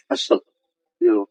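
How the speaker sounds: slow whispered astagfirullah; whispered prayer. Real, not acted. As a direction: breathe the prayer out in fear, slowly. Ghost hunt, frightened prayer.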